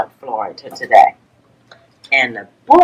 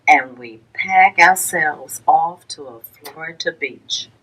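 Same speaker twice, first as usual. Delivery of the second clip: lilting storybook read-aloud with a rhyming bounce; gentle sing-song picture-book narration; reading to children; slower than usual. Acted. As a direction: read it to a class of little kids, bringing out the rhymes. Teacher reads picture book aloud.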